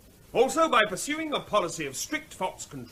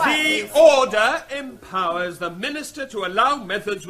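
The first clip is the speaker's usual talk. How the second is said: firm raised voice; 6 dB louder than usual. Acted. Resumes over dying noise.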